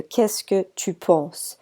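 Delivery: Qu'est-ce que tu penses said slowly, each syllable clear; slow it down so students catch Qu'est-ce que tu penses; slow model phrase. Shown as a demonstration. Teacher models the example for students, slowly. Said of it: "I put that there as an example for you".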